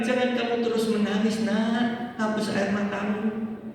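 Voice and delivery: put-on soft, fatherly comfort to a crying child; tender. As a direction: console gently, like a father. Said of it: "Dengan manis Tuhan mengatakan". (dengan manis dan lembut)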